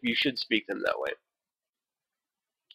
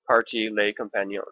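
mock French accent; 2 semitones lower, 4 dB quieter than usual. Shown as a demonstration. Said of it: "attribute what they think that accent sounds like, like I just did".

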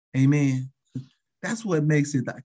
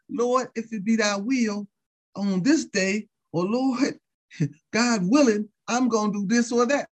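humble believer; 6 semitones higher than usual. Retold or imitated. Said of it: "That's how we talk".

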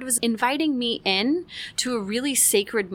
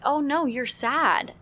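name his sadness tenderly; gentle empathy; 6 semitones higher, slower than usual. Retold or imitated. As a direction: mom comforting her son. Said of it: "I told him, like".

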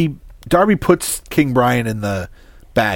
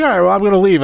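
higher and louder mock exasperation; huffy departure; 10 semitones higher, 7 dB louder, much faster than usual. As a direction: storm off in a pitched-up huff. Connery character huffs off, voiced.

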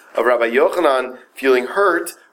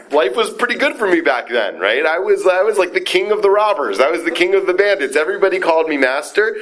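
boastful bandit king; 8 semitones higher than usual. Acted. Teacher voicing Reish Lakish bragging about his bandit past, pitched-up boast. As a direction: brag like the old robber chief, pitched up.

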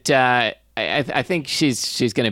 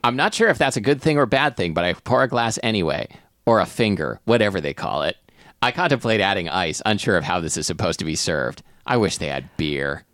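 measured first-person narrator reading; narrating a comic tale; story narration. Acted. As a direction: read the story aloud. Reads story aloud.

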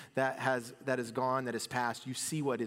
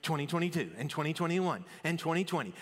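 a mildly jaded, sighing drag; mock weary resignation; 2 semitones higher, faster than usual. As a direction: greet the new year like a chore. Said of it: "it's like".

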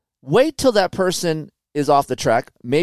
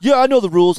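other rider retorting; 7 semitones higher, 5 dB louder, faster than usual. Retold or imitated.

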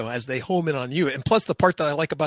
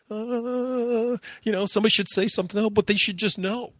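mock grumbling regulars; 8 semitones higher than usual. Regulars muttering about newcomers.

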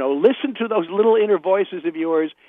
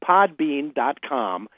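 slow spelled-out plug; much slower than usual. Real, not acted. Plugging podcast web address.

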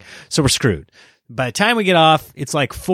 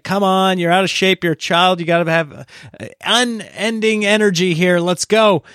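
higher-pitched mock pep talk; exasperated urging; 5 semitones higher than usual. Dad hurrying out-of-shape kids to the gate, exasperated urging. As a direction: chivvy a lagging child along.

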